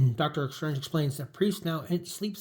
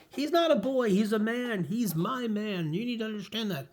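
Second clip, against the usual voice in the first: put-on insistent young woman; 7 semitones higher, 3 dB quieter than usual. Gwen tells Aunt May Peter's a man, high then softening. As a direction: press the point, then let it drop.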